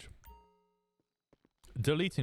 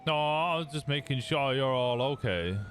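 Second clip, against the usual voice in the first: concerned Southern cop checking in; put-on Southern accent, kindly reassuring; 5 semitones higher, 3 dB louder than usual. Cop checks the medics are okay, in a Southern accent. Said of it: "I'm clearly English doing a Southern accent".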